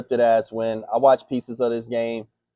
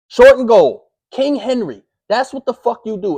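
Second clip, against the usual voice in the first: exasperated shout; 9 semitones higher, 8 dB louder than usual. Real, not acted. Ranting about the goal-line play.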